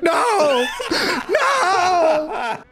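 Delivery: high mock-horrified yell with laughter; retold shouted no. Streamer retells hearing an enemy's thanks, mock yell of no. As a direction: re-enact a drawn-out cry of protest.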